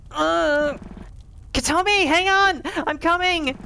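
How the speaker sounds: high, loud, urgent yell; panicked rescuer shouting. Acted. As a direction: shout through the flames to reach her. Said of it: "a loud and panicked voice".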